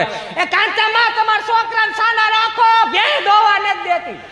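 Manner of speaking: very high, long drawn-out call; complaining neighbour woman. Acted. Neighbour from four houses away complains about crying, shrieked call. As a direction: holler like an old-time village auntie. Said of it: "ચોથી ડેલીએથી અંબામાં કહેવા આવે".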